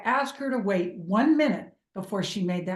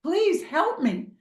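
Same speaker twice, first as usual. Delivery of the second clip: imitated cry to God; 6 semitones higher than usual. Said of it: "You cry out to God and you're like".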